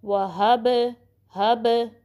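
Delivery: final b of वहब rebounds like a ball; touch and release the b in हब with an echo; bouncing end on वहब and हब; qalqalah bounce. Shown as a demonstration. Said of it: "ball bounce होती है वैसे".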